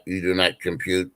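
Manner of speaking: a hint of a deadpan robot. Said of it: "You hit the robot voice".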